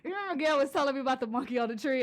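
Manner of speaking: usual speaking voice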